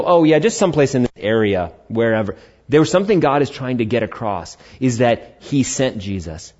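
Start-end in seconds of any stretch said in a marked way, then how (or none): 0.0-2.4 mock vagueness. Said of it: "God doesn't just go".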